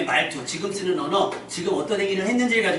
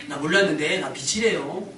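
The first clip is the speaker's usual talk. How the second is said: slow, wondering mock surprise; as if someone just told you; surprised hearsay. Shown as a demonstration. Preacher acting someone surprised to be called light, slow wonder. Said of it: "자기에 대해서 확신 못하고".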